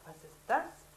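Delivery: high, loud startled ask; loud question. Acted. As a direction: call it out in shock. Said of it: "fragt sie laut". (Hannah fragt laut und erschrocken)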